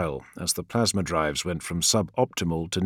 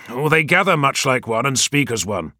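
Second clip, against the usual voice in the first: louder and higher, anger building; rising anger; 6 semitones higher, 5 dB louder than usual. A narrator's reading. Leader scorning the clan fathers to his adviser, growing angry. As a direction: let the anger climb. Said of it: "his anger only rising".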